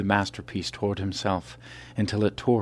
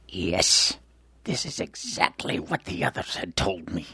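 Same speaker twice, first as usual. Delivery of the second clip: smug. Acted. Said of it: "his assailant smiled smugly".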